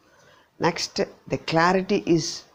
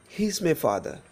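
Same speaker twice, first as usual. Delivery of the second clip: single out "He"; stress on HE. Shown as a demonstration. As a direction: lean on "He", quick "is my father". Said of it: "when we stress this particular word".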